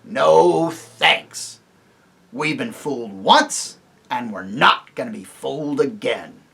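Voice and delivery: loud, dismissive dwarf; stubborn dwarf. Acted. Griffle refuses the king, loud and stubborn. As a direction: shut them down.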